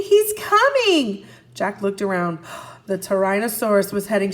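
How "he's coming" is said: put-on higher, louder, slow frightened girl; scared girl warning. A narrator's reading. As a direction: warn him the dinosaur is coming. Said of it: "shouted Annie".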